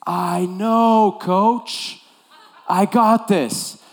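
put-on high, loud, slow teen voice; hammed-up cocky kid; overconfident player. Player assuring his coach again, high and cocky.

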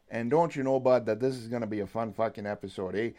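hammed-up Canadian accent with bud and eh; joking Canadian accent. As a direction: lay on a thick jokey Canadian accent. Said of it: "in this accent".

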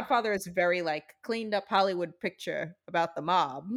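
put-on old Hollywood transatlantic voice; lightly put-on 1940s film accent. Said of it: "I really like the voice you used".

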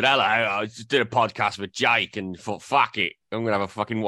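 put-on slipping into an Australian accent mid-quote; host mock-quoting himself in a light Australian accent. Host imagines telling his boss about drinking, in a light Australian accent. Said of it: "I don't know why my accent changed".

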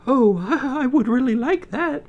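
put-on high girlish voice with a laugh; delighted high girl, laughing; happy girl laughing. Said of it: "Snow White smiled".

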